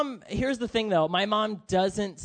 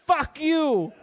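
high, angry mock yell; imitated yelling mom; 6 semitones higher than usual. Immigrant mom yelling at the driver who hit her, high mock fury. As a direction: curse like a furious immigrant mother. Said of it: "starts yelling at this dude".

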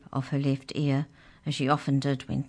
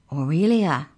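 weighty, mysterious reveal of a place; 6 dB louder than usual. A narrator's reading. Mouse revealing where they are going, mysteriously. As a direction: announce it with an air of mystery. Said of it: "said the mouse mysteriously".

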